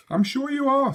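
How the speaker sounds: lightly voiced kindly father; a hint of a patient dad; indulgent father. Father humouring his daughter, lightly kindly.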